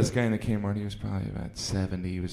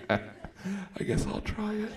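hesitant mock taster; 11 semitones higher, 7 dB quieter, much slower than usual. Mock first bottled water taster.

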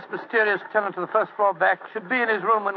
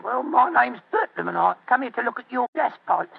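put-on Cockney accent; 4 semitones higher than usual. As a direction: bluff nervously in Cockney. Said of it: "My Cockney accent doesn't compare with yours".

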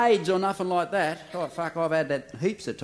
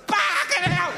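much higher, sharp cry of pain; pained yelp; 12 semitones higher, slower than usual. Acted. Patient yelps as coffee is poured in, high pained cry.

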